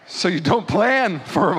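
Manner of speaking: slow, drawn-out, wobbly put-on delivery; odd accidental voice. Real, not acted. Preacher slips between voices explaining revival, odd accidental voice. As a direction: stretch it out in an odd voice. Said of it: "I don't know what that was".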